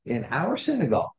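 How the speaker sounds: mildly acted indignation; mock outrage, pitch lifting a little; indignant challenge. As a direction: play an affronted official challenging an outsider. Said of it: "glaring at him saying".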